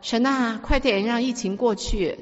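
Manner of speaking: lightly voiced child's plea, slowing; imitated little son praying. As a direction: beg as a fed-up small boy would. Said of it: "小儿子每次祷告". (模仿小儿子祷告恳求)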